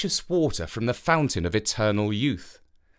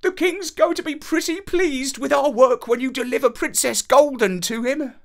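high, chirpy dog voice; little dog voice; 12 semitones higher, 4 dB louder than usual. Acted. Little dog talking to Avenant, chirpy and high. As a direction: speak as a cheerful little dog.

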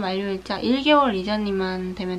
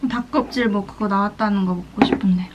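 whisper; 6 dB louder than usual. Real, not acted. Muttering while eating alone.

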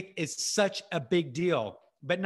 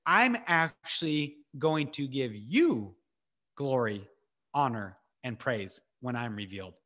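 weighty divine promise; 6 semitones lower than usual. Acted. God's promise, slowed for weight.

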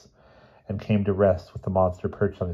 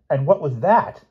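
squawking nurse; 8 semitones higher, 5 dB louder than usual. Acted. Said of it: "squawked the dumbfounded nurse".

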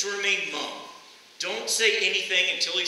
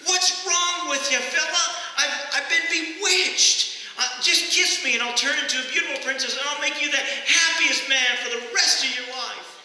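a frog at its wits' end, stretching every word; desperate frog; 7 semitones higher, 3 dB louder than usual. Retold or imitated. Frog's third, desperate plea.

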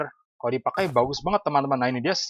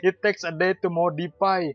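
slow, drawn-out incredulous read; slow groaning disbelief; dismayed disbelief; 4 semitones higher, 4 dB louder, much slower than usual. Real, not acted. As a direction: stretch each word in dismay, higher and louder. Reads the delay notice, dismayed.

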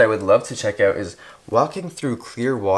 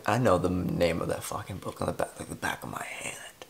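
mock inner voice; 4 semitones lower, 8 dB quieter than usual. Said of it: "I was saying".

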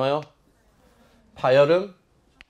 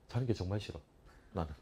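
very soft, lowered aside; quiet confession; 6 semitones lower, 16 dB quieter, faster than usual. Real, not acted. Teacher confessing he hates sleeping in class, quietly. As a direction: drop to a low, subdued admission. Confides dislike of students sleeping.

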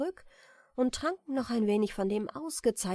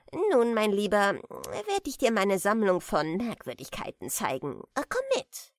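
put-on hearty old merman; 5 dB louder than usual. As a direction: show off the collection. Merman invites Jack.

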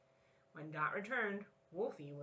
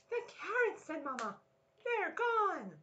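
high, louder gasp of surprise; shocked mama; 12 semitones higher, 5 dB louder than usual. Acted. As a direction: sound shocked at the empty cupboard. Mama finds carrots gone.

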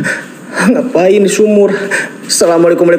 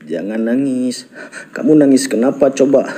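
low, softened coaxing; soothing; 5 semitones lower, 4 dB quieter than usual. Real, not acted. Ghost hunter comforts an unseen crier, low and soothing. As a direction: gently comfort someone crying, pitched low.

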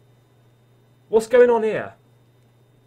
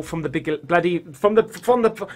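tongue-tied stumbling; 2 semitones lower than usual. Real, not acted. Rattled player explaining the recording plan, stumbling over words. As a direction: stammer and restart the phrase. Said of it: "I can't even speak".

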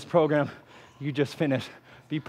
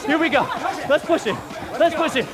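high, insistent calls that stay up; urgent exhortation; 11 semitones higher than usual. Real, not acted. Coach refusing to let the class quit, high-pitched urgent urging. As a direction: drive them through the hard part.

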